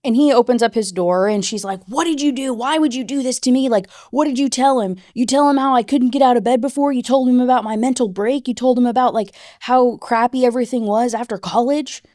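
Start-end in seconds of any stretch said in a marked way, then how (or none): 1.9-12.0 upset accusing. Retold or imitated. Lo confronts Ben about betrayal.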